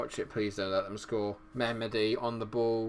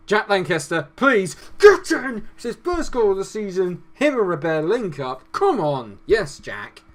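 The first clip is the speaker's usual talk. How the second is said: screaming with joy, much higher and louder; goal celebration; 9 semitones higher, 11 dB louder than usual. Real, not acted. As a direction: let it rip, over the moon. Own striker scores first goal.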